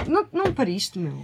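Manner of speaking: normal talking voice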